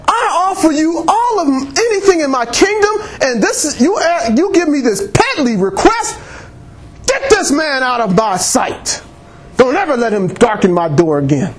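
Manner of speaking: a king's high, offended outburst, pitched well up; angry king. Acted. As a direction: play the insulted king throwing him out. King angrily dismisses the man.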